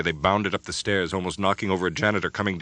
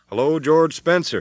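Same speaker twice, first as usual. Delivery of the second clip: slow, steady and calm; steady even tone; 9 semitones higher, 8 dB louder than usual. Acted. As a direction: keep it level and calm. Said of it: "he called in a steady, even tone".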